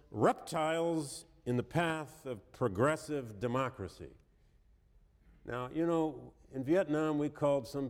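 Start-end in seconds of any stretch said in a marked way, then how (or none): 0.1-4.1 slow, deliberate reading of the quote; slow quoted reading. Shown as a demonstration. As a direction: let each word of "reptiles" land slowly. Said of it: "I quote".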